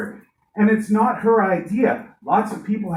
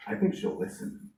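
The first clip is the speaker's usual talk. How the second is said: whispered hope; 11 dB quieter than usual. Real, not acted. Hopeful quiet prediction.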